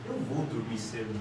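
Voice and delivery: very low, soft, noncommittal; inverted intonation, unsure. Shown as a demonstration. Teacher inverts the intonation for students, soft and doubtful. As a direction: say it quietly, as if doubtful. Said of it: "eu posso inverter a minha intenção, minha entonação".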